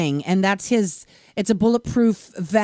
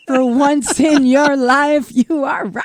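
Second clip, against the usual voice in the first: laughing; 5 semitones higher, much slower than usual. Real, not acted. Laughing at co-host's remark.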